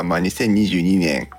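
ordinary talk, nothing marked

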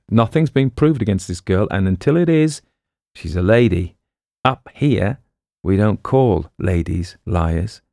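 emphatic, lightly voiced tough cop; stern detective. Detective defending the girl from an insult, mildly stern. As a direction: lay down the rule firmly. Detective rebukes the little man.

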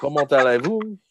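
amused, loosely put-on French accent; badly faked French with a laugh; muddled French accent. Co-host trying out forgotten French, muddled accent. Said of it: "speaking English in an accent".

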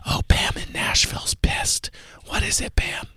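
hushed radio host whisper; breathy secretive whisper on air. Acted. Host whispers all show.

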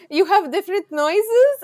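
high, loud, drawn-out disbelief; astonished. Retold or imitated. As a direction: imitate mom's incredulous question, rising at the end. Mom astonished at American animal noises.

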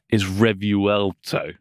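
"Revuelto" said very slowly, as English spelling suggests, rev-you-el-toe; read as spelled. Shown as a demonstration. Host shows how the name reads in English, slow read-as-spelled. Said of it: "'cause if you read it".

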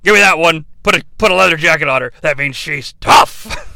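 loud, pushy wrestling boss; Vince McMahon. Retold or imitated. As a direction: bark it like a brash promoter. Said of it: "he would just be like".

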